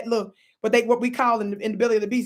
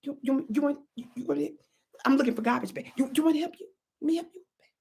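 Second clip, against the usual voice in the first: soft sweet offer; 3 semitones higher, 4 dB quieter, faster than usual. Retold or imitated. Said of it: "I said".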